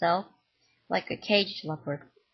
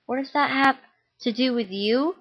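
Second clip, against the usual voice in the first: raised, higher angry question; mom yelling; 5 semitones higher than usual. Acted. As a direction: throw the question at him in anger. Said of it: "she yelled".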